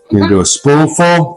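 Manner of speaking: light mock Italian accent on spoonful; a touch of a put-on Italian accent. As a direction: play a hint of an Italian chef. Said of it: "You sound like an Italian".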